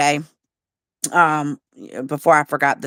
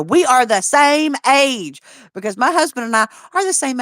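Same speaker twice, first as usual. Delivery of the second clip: indignant protest; 6 semitones higher, 3 dB louder than usual. Retold or imitated. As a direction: insist loudly. Protesting to strangers, loud.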